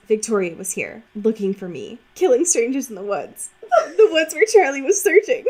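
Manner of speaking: cracking up as the line goes on; laughing while quoting. Retold or imitated. Reading a book quote to her cohost, breaking into laughter. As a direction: quote read through rising laughter. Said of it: "It says".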